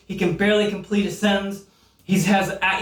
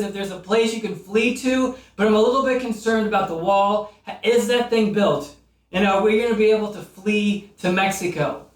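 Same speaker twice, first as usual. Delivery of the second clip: getting carried away ranting about the election; excited rant; 3 semitones higher than usual. Real, not acted. Comic worked up about both candidates, rising excitement. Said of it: "I got really excited about this".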